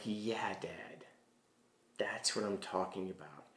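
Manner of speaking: soft near-whisper, barely voiced; hushed reply. Son gently answering his crying dad, in a hush. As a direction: breathe it gently to him.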